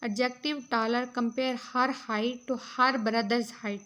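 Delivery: reading out notes, very slow and deliberate; measured classroom read-aloud; slow dictation reading. Acted. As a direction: dictate each phrase slowly for students to copy. Reads English note slowly.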